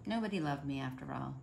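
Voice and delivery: soft, sighing letdown on "Nobody loved me"; sighing sadly. Acted. Alone in the living room, Mister Hatch sighs it softly. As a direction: let it sink with a sigh. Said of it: "Mister Hatch sighed".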